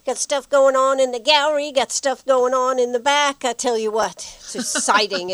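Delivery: breathless after rushing in; out of breath. Real, not acted. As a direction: talk while catching your breath. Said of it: "You're out of breath".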